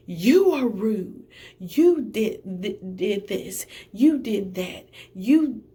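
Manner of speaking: slow, loud imitation of a shouting accuser; hammed-up angry accusation; mock shouting. Test-taker yelling at the desk worker, imitated loudly. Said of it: "she's shouting at this point".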